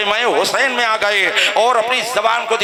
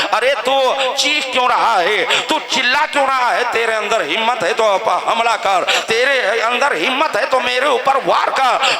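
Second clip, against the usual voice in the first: put-on defiant young imam; 4 semitones higher than usual. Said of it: "हजरत इमाम कासिम ने फरमाया".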